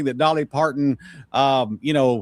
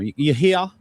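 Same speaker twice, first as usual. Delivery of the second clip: imitating grandma's high Southern "you hear?"; Southern grandmother impression; 8 semitones higher than usual. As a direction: call the kids over like a sweet Georgia grandma. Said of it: "she used to talk like that all the time".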